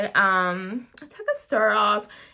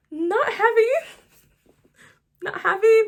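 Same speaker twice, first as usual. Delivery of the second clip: not happy; 11 semitones higher, 6 dB louder than usual. Real, not acted. Ranting about disliked ending.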